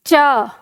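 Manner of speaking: च said alone, crisp and isolated; consonant demo. Shown as a demonstration. Teacher sounds च so class feels the palate, crisp. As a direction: model च slowly for students to copy. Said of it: "करिए च का उच्चारण".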